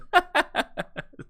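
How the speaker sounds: high, bursting embarrassed laugh; burst of laughter. Real, not acted. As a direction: laugh at your own slip. Flubs the sponsor read.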